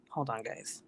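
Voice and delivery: said away from the microphone; far off mic. Real, not acted. Streamer turning away from viewers as kid yells, far off mic. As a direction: call it over your shoulder, off mic.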